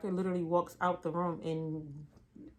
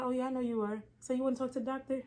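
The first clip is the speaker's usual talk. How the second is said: higher, sarcastic, fast; smart-ass; 5 semitones higher, faster than usual. Retold or imitated. Assistant being a smart ass with the patient, sarcastic and fast. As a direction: needle him with mock agreement. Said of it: "Being a smart ass".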